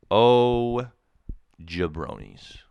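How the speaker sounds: hammed-up call of "Oh" before a muttered "jabronis"; loud mock exasperation. Shown as a demonstration.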